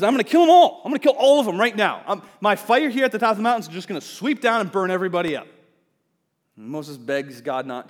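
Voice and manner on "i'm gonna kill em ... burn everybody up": high, loud furious threat; angry God. Retold or imitated. God threatening to destroy the camp, loud furious roar. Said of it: "God gets angry and says".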